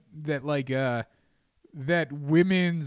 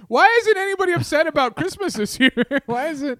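mock outrage; 12 semitones higher, 6 dB louder than usual. Mocking outraged Christmas fans.

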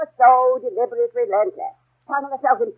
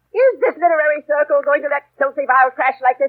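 outraged shout; 3 dB louder than usual. Acted. Outraged club president rallying ladies.

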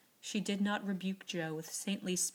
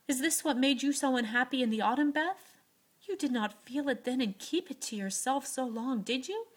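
louder, higher, fast anguished questioning; pleading; 6 semitones higher, 6 dB louder than usual. A narrator's reading. Joe begs Beth for the truth, anguished and loud. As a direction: press her with distraught questions. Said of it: "asked Joe, refusing to see".

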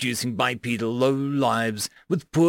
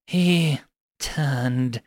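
conspiratorial tone. Acted. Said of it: "speaking in a conspiratorial tone".

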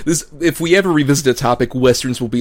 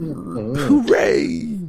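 mock cheer; 12 semitones higher than usual. Mock cheer after wrap-up.

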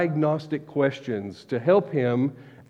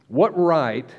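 "right" pressed hard and held; stress on RIGHT. Shown as a demonstration. Preacher voicing God's question to the congregation, stressing "right". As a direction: lean into the word "right". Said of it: "notice my emphasis on the word right".

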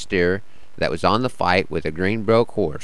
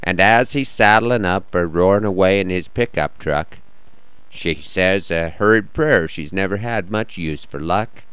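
measured cowboy poetry reading; cowboy poem recital. Acted.

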